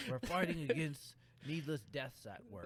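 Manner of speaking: movie trailer voice. Shown as a demonstration. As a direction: sell it like a blockbuster trailer. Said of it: "Is that your movie phone voice?".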